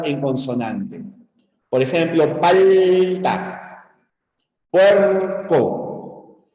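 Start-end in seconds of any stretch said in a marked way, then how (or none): 2.4-3.9 "palta" with a long held "pal", then "ta"; syllable boundary shown. Shown as a demonstration. Teacher giving an example of consonant meeting consonant, split syllables. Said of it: "termina en consonante". 4.7-6.5 "puerco" split as "puer", pause, "co"; syllable boundary shown. Shown as a demonstration. Teacher giving a second consonant boundary example, split syllables. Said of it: "termina en consonante".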